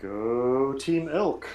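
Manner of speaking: excited cheer. Real, not acted. Team cheer after elk summon.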